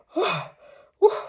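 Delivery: a high, breathy mock gasp for air; imitated panting huff. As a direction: huff out a pant as if just woken from a chase. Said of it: "Hingal na hingal ako".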